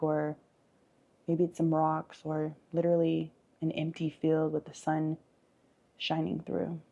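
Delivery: measured visualization with lingering pauses; guided meditation. Acted. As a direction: gently lead them through an imagined scene. Leads a guided forest visualization.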